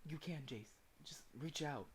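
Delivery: soft, steady reassurance; calm someone down from a distance; soothing voice. Acted. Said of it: "A soothing voice echoes far in the distance".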